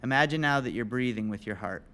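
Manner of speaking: calm, measured breathing guidance; guided meditation. Real, not acted. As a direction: guide listeners into stillness, leaving long pauses.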